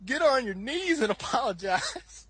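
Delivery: hammed-up drawn-out order; mock stern dad. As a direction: lay down the law as his dad. Dad refuses and orders, retold.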